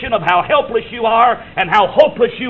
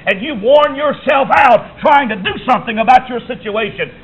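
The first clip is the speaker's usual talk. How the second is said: rising preaching shout; 3 semitones higher than usual. Acted. Preacher to congregation: Jesus' call, built to a shout. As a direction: drive it up to a shout.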